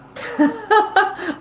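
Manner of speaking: high giggling laugh; amused high-pitched chuckle; real laugh. Real, not acted. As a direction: burst out laughing at your own remark. Laughs at getting moon information.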